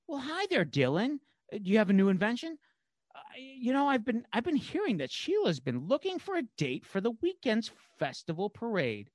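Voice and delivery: high, coy sweet-talk; flirty Veronica voice.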